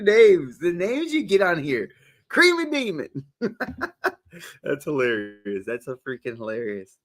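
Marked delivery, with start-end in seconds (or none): 2.3-4.6 high, laughing over the name. Real, not acted. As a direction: read the name while cracking up. Laughs at funny username.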